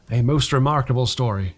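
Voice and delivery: weighty stress on most; a vicar delivering a judgment; judicial emphasis. A narrator's reading. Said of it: "with judicial, ju-, judicial emphasis".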